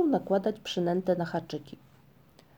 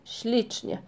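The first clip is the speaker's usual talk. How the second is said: mocking; 3 semitones higher than usual. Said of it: "zawołał kpiąco Migotek".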